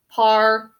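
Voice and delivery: spelling-practice "Parliament", syllable by syllable; sounded out. Shown as a demonstration. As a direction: say "Parliament" as par-luh-ment, each beat apart. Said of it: "this is silent in the word".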